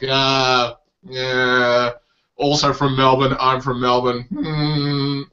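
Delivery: grudging, underwhelmed drawn-out grunts; imitated unimpressed Australians. Australian audience hearing of a Melbourne comic, mock indifference. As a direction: play a lightly unimpressed local. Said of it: "But Australia, like".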